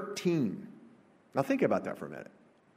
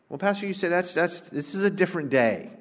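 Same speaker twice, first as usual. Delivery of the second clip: higher-pitched skeptic's protest; mock objection in a raised pitch; objecting churchgoer; 6 semitones higher than usual. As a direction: voice a doubter pushing back at the pastor, higher than usual. Voicing a skeptical objector to the pastor.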